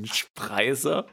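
„Spreißer“ asked slowly with a rise; doubtful echo. Real, not acted. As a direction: repeat „Spreißer“ in disbelief. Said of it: "das ist doch erfunden". (ungläubig gedehntes „Spreißer“ mit steigender Stimme)

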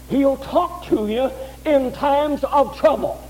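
preacher rising to a fervent peak; preaching at full force. Real, not acted. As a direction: hammer home the pure Word of God.

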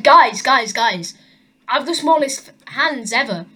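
lightly acted excitement, bursting in on "guys"; mock excited. Dwarf telling his friends about his world record, mildly excited. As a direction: play an excited announcement to your mates. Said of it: "He came out really excited".

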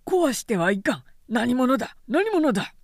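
flustered guard shout; alarmed challenge. Acted. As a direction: call out in alarm. Startled guard calls out.

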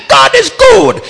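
high, loud triumphant declaration; shouted praise. Retold or imitated. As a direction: declare it to drown the doubt. Preacher insists on faith.

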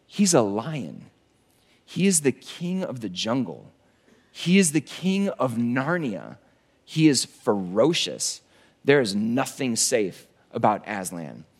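low slow Beaver voice. Retold or imitated. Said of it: "And Mister Beaver says".

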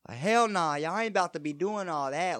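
high, loud, sassy put-on voice; mock brash Southern-accented refusal, pitched high; mimicking friend's sister. Friend imitates her sister objecting, high loud sassy impression. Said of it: "a ghetto black chick".

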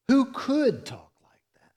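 breathy whisper of wonder; whispered in amazement; awed whisper. Real, not acted. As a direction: hush it in awe. Awed rhetorical question.

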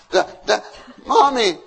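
put-on child calling. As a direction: call for mommy like a kid.

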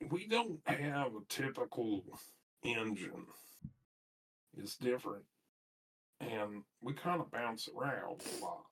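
soft, halting explanation; sheepish confession. Acted. Crew member explains the doppelgangers to the abbot, sheepishly quiet. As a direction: trail quietly through an awkward admission.

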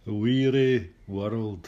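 "world" stretched slow into two syllables. Shown as a demonstration. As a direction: drag out "Weary world" slowly. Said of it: "See, two syllables".

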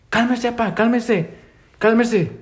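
high, pleading cálmese; pleading uncle. Retold or imitated. Uncle begging his father to calm down, high pleading. Uncle calming the knife-wielding grandfather.

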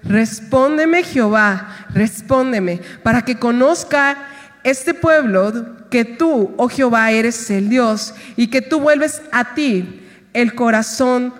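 slow, fervent scripture prayer; solemn prayer reading. Acted. Preacher reading Elijah's prayer to the congregation, solemn. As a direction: pray it out with weight.

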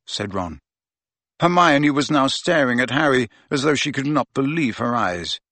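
ordinary delivery, nothing marked

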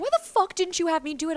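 high, hammed-up friend's outburst; a hint of an annoyed friend; mock angry friend. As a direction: act out the mad friend, half joking. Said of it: "My friend got mad at me".

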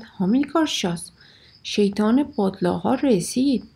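mild shouted warning. Acted. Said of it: "باز فریاد زد". (فریاد هشدار ملایم)

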